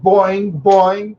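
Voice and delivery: springy boing, drawn out and rising; bouncing tire noise. Retold or imitated. Storyteller mimics his front tire bouncing, springy boings. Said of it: "the front tire went".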